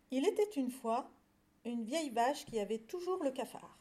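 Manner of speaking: measured storybook reading; lecture d'album jeunesse. A narrator's reading. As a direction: read it to young listeners, phrase by phrase. Reads a picture book aloud. (lecture de conte pour enfants)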